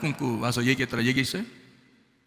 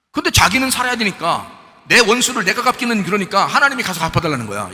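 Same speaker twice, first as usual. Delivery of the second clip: preaching loud; 5 semitones higher, 6 dB louder than usual. Real, not acted. Preacher rebuking selfish revenge prayers.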